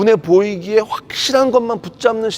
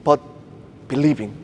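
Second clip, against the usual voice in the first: slow English scripture quote; much slower than usual. Retold or imitated. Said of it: "이렇게 말씀하시는 거예요".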